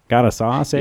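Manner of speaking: put-on folksy old-timer twang; old-timey voice. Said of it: "they say it in that old-timey voice".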